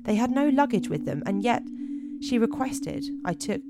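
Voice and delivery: measured spooky-tale narration; deliberate storyteller read; story narration. A narrator's reading. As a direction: read it out like a campfire mystery, pausing between phrases.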